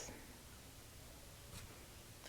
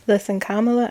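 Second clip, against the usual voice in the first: ordinary talk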